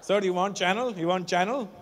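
lightly voiced Indian street seller; fake bag seller. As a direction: hawk the fake bag in a hint of an Indian accent. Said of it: "Indian people come here and sell fake".

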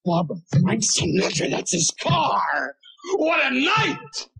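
high, slow, star-struck squeal; a husband gushing to his wife about a famous singer's car; giddy excitement. Retold or imitated. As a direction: gush like a starstruck fan. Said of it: "And I got all excited".

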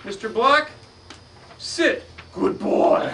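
put-on loud, teasing kid-show voice; hammed-up showman. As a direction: tease the audience like a circus act.

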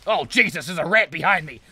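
loud high frantic yelling; startled panic. Real, not acted. Gamer surprised by a rat behind him, loud frantic yelling.

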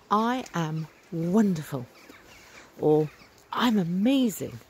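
heartfelt, slowly savoured declaration; heartfelt enthusiasm. Retold or imitated. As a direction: say it as if you really mean it. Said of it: "And I really, really mean it".

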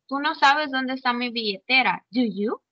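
"do you" rising at the end, really asking; real question intonation. Shown as a demonstration. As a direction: lift the final YOU as a genuine question. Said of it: "preguntándole algo serio". (pregunta real, «do you» sube al final)

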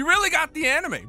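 high, loud joyful exclaim; overjoyed shout. Real, not acted. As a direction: shout it in disbelief. Overjoyed at announcement.

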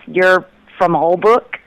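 ordinary delivery

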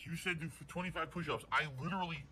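loud, indignant call-out; angry. Real, not acted. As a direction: tell him off loudly. Calling out the tipper.

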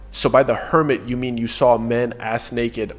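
dry mocking question that rises at the end; sarcastic. Guide mocked about the hermit, mildly sarcastic. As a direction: lay the sarcasm on lightly. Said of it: "so I just sarcastically reply".

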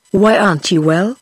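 lightly patronizing, talking down; a touch of condescension to the sighing woman. A narrator's reading. Clergyman asks the mother, mildly patronizing.

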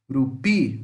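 rupi with pi said stronger; teacher showing stress in rupi; stress on the last syllable. Shown as a demonstration. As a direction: land on pi in rupi. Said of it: "o pi é mais forte".

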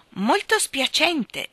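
slow, high, courteous apology; gentle exclamation. A narrator's reading. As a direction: apologise kindly, stretching the words. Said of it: "esclamò il leone gentilmente".

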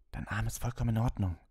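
a touch of a hiss at a rival; hissed anger. A narrator's reading. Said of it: "zischte er Malfoy zu".

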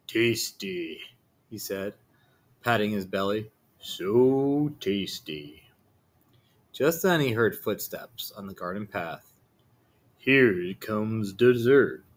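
a greedy wolf relishing his meal, drawn out. Acted. The wolf voiced.

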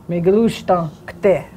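"Mi glu stan kte" slow, "stan" as shtan; slow model phrase. Shown as a demonstration. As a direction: say it slowly for learners. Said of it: "this is a H, S H sound".

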